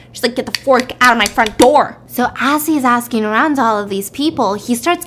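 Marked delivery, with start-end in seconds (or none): 0.3-2.0 louder, mock-angry snap; pissed-off grandma. Grandma shooing a stranger from her door, pissed off. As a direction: act a grandma fed up with everyone. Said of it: "she's just pissed at the world".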